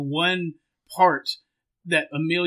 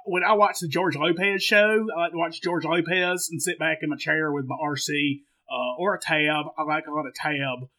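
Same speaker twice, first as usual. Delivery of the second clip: put-on Southern accent. Co-host chats about his ginger ale, Southern accent. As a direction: ramble like a comic Southern good old boy. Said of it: "to change accents".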